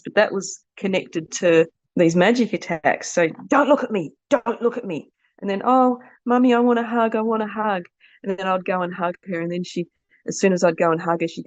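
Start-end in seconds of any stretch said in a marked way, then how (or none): 3.5-5.1 high-pitched child's warning, imitated; retold daughter's warning. 5.6-7.8 high, pleading little-girl voice, imitated; retold child's plea. Daughter begging for a hug, retold.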